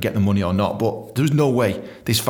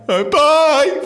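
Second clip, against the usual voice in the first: meek squeaky bye; 6 dB louder than usual. Retold or imitated. Meek farewell.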